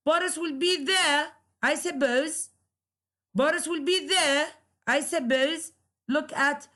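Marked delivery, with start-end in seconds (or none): 0.1-2.5 statement as a question, "there" pitched high; tentative-question tune with raised "there"; rising question tone. Shown as a demonstration. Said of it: "the rising intonation". 3.3-5.7 declarative question, higher up to "there"; statement lifted into a question before "I suppose"; rising question tone. Shown as a demonstration. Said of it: "the rising intonation".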